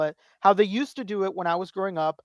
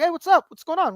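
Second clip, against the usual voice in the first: tag; 10 semitones higher, 5 dB louder than usual. Retold or imitated. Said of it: "stranger wanted to talk to me".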